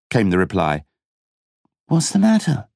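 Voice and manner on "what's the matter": soothing. A narrator's reading. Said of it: "he asked soothingly".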